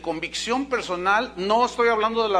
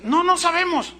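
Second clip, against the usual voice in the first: high, louder flustered denial; evasive reply; 11 semitones higher, 5 dB louder than usual. Retold or imitated. Leaders answer Jesus with a flustered dodge. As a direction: dodge the question nervously.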